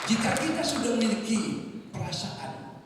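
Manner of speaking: loud, high exhortation to the congregation; preaching at full force. Real, not acted. Preacher calling out loud and high to the congregation. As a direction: lift your voice and preach it.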